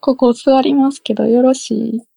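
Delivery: learner echoing a polite Kyoto-style request; Kyoto-style question, carefully repeated; refined Kyoto-style speech. Shown as a demonstration. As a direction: copy the Kansai intonation on よろしい. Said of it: "なんか上品な感じある".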